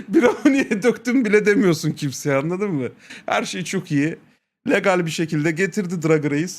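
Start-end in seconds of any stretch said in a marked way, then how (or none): 0.0-1.2 slow, giggly high voice; a giggling, spaced-out mock druggie; laughing stoned drawl. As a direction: laugh through it like you're stoned. Mimicking stoned state, laughing.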